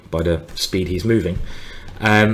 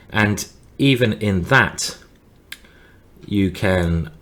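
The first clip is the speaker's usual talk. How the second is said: slow, halting, distracted delivery; speaking very slowly; slower than usual. Real, not acted. Commentator busy trying to find the right moves, speaking very slowly. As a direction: drag it out with long gaps between phrases. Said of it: "I'm speaking very slowly".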